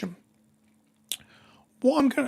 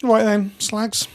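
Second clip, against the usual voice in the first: loud brash opener, louder; loud call; 5 dB louder, much slower than usual. Acted. Streamer rallying chat, loud brash greeting. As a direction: bellow it to the chat.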